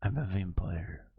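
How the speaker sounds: badly faked Russian accent turned vampire. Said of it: "like a Twilight vampire".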